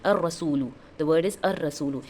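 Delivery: "ar-rasulu" with the l merged into a doubled r; silent lam. Shown as a demonstration. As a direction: roll straight from a into rr in "ar-rasulu". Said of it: "लाम का sound नहीं आ रहा है".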